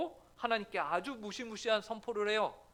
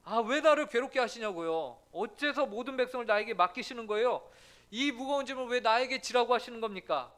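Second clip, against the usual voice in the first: arguing with God; 3 dB louder than usual. Retold or imitated. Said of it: "하나님께 따지듯이 말해요".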